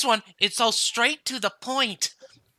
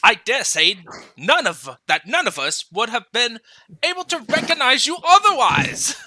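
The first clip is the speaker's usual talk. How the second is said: put-on Scottish accent; 4 dB louder than usual. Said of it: "trying to do a Scottish accent".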